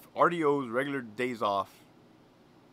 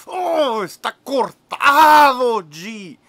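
much higher, much louder hammed-up swoon; swooning cry; 13 semitones higher, 14 dB louder, much slower than usual. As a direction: gasp it out like he's fainting. Coworker swooning over Troy's muscles.

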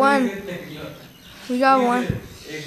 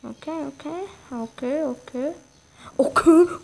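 rising okays; 3 semitones higher than usual. Real, not acted. Playful repeated okay, building louder.

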